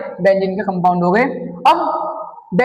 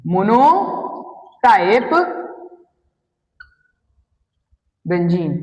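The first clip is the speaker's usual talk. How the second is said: slow drawn-out; 3 semitones lower, much slower than usual. Shown as a demonstration. Teacher to class, spelling out मोनोटाइप very slowly. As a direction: stretch मोनोटाइप very slowly, syllable by syllable. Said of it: "repeats word slowly for class".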